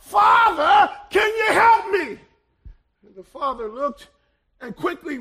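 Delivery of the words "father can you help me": louder, higher call up from the hole; man in a hole calling desperately to a priest; cry for help. Retold or imitated. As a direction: shout up to the priest for rescue. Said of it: "he cried out".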